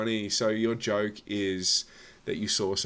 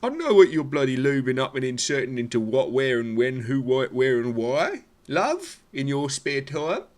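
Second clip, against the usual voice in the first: mock indignant partner; 4 semitones higher, 4 dB louder than usual. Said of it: "She was like".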